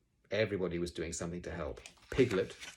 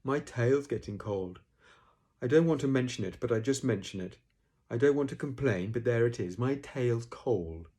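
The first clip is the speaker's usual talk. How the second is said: Eeyore, gloomy and put out; 4 semitones higher, 6 dB louder than usual. Acted. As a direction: complain mournfully, stretching the last words.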